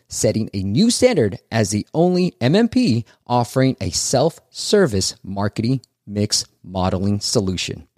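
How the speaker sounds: bright podcast ad-read voice. Acted. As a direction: sell it like a radio ad spot. Host reads sponsor ads.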